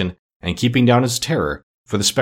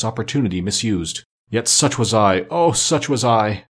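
mildly impassioned lament, slightly lifted; lightly voiced phantom. Phantom regretting a misused life, remorseful declaiming.

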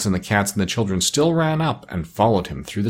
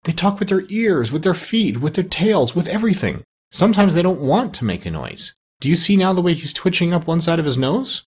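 high voice; 8 semitones higher than usual. A narrator's reading. Parrot teaches the doctor how animals talk, in a high voice. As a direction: parrot voice held high throughout. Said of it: "said the parrot in a high voice".

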